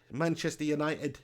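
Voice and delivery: shaky attempt at a Manchester accent; Manc accent. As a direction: try a Manc accent, not very well. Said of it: "I'm shit at the Manc accent".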